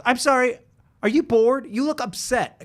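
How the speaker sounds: lightly voiced concerned girlfriend. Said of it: "she goes".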